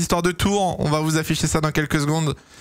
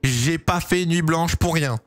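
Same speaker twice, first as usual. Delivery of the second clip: slow pleading; 4 semitones higher, slower than usual. Real, not acted. Begging before the lights go out.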